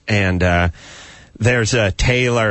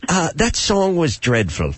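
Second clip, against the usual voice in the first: mock Simon; 7 semitones higher, slower than usual. Host imitates Simon critiquing a singer.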